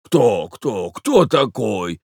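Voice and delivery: put-on understated old man's cry; old man shouting. A narrator's reading. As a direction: ask slowly in a flustered old voice. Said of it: "кричал старик".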